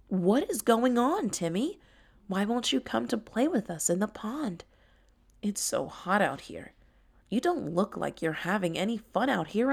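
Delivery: lightly voiced worried friend; caring tiger Tara. Tara checking on crying Timmy, gently concerned.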